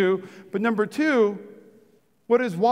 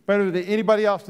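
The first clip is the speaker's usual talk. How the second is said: quick repeat; faster than usual. Shown as a demonstration. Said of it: "Listen to me, church".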